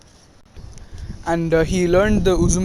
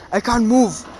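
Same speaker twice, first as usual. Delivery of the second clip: higher-pitched, lightly acted protest; mock helpless cry; 5 semitones higher than usual. Stuck teacher to his students, mock helpless cry. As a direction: play at being stuck and helpless.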